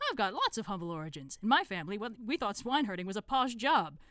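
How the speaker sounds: lightly voiced small, humble cult member; Brother Dunnikin. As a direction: object with wounded pride, in character.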